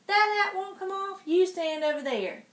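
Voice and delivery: high, snooty little duke voice; spoiled child noble, high and snotty; bratty child duke. Acted. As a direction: sneer it like a spoiled boy duke.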